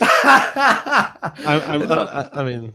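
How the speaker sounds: laughing through the words. Real, not acted. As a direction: laugh while stumbling over I mean. Laughing at his own mistake.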